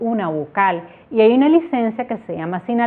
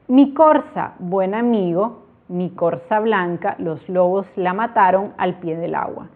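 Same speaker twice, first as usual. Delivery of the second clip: slow, tender reading of "Mi corza"; poem recital. Shown as a demonstration. Teacher reciting a pentasyllable poem to the class, slow and lyrical. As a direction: let each verse breathe as a poem. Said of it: "Vamos a ver ahora ejemplos".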